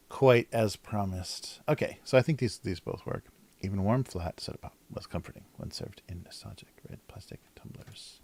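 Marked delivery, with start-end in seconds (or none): 3.6-8.2 hushed, quick whisper of the caption; whispered read. Shown as a demonstration. Streamer whispering a snack caption to chat. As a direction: breathe the line out like a secret.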